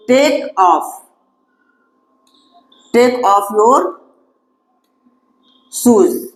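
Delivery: very slow, word by word dictation; slow teacher dictation. Shown as a demonstration. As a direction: spell it out slowly for the class to write. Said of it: "dictating slowly to class".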